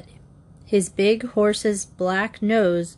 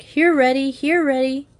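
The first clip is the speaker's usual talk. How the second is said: high-pitched summons, louder at first; calling the dog; 7 semitones higher, 4 dB louder than usual. A narrator's reading. Searching for Reddy in the windy woods, high call. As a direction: call out sharply for a missing dog.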